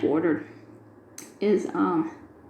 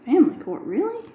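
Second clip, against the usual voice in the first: disbelieving, pitch leaping up on really; can't believe they sent us there; family court, really, said with a high incredulous rise; 7 semitones higher, faster than usual. Retold or imitated. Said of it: "incredulous at being sent elsewhere".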